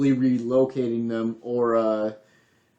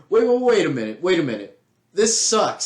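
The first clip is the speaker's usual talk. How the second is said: higher-pitched mock protest, easing midway; imitated objection; 4 semitones higher than usual. People after the Constitution calling for changes, in mock protest. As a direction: jump in to halt things, acting out objectors.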